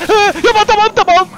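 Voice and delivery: high, loud, urgent pleading; alarmed yelling. Real, not acted. Gamer pleading with a player to stop, alarmed yelling. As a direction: yell for them to stop.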